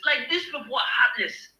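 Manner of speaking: shouted in anger; emotional outburst. Real, not acted. Speaker venting anger at heartless leaders. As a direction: blurt it out, fed up. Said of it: "I get so emotional talking about this".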